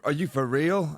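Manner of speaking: lightly imitated American accent, incredulous question; a half-hearted go at an American accent; mock American accent, rising on "real"; attempted American accent. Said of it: "So she had that accent".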